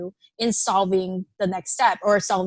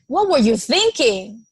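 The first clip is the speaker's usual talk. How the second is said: blunt, pointed, a hint of blame; a mild edge of reproach on the question; lightly accusatory demand; accusing tone; 3 dB louder than usual. Shown as a demonstration. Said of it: "is very different than".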